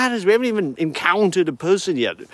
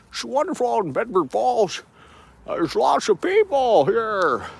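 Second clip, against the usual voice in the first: lightly voiced old-film stammer, calling out; a hint of It's a Wonderful Life hero; Jimmy Stewart impression; 3 semitones higher than usual. Vlogger calling to Mary as Jimmy Stewart, lightly done. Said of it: "who else do we need to impersonate".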